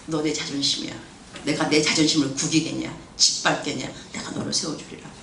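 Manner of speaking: soft voice of God. Retold or imitated. God's voice, spoken softly.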